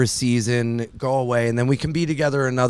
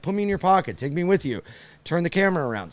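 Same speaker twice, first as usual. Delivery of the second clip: put-on girlfriend voice; 6 semitones higher, 4 dB quieter, faster than usual. Girlfriend voiced in retold call.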